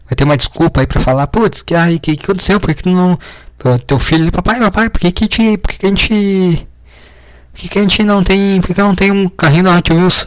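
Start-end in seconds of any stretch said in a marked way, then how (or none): 1.3-10.2 put-on child voice. Kid voiced asking his dad.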